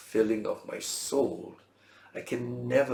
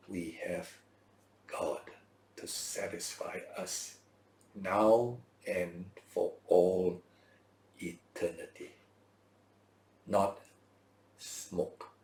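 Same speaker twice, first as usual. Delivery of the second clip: hushed whisper; 3 semitones lower, 3 dB quieter, slower than usual. Acted. Closing thought, hushed.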